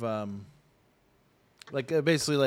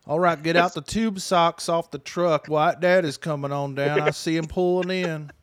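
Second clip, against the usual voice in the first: excited vendor call; 4 semitones higher, 5 dB louder than usual. Pretend. Hamming up flea-market vendors.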